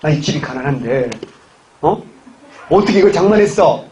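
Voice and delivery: mild mock suspicion, rising on the last question; lightly acted accusing question; suspicious husband. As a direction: act out a husband's sudden doubt. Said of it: "버럭 의심을 한 거야".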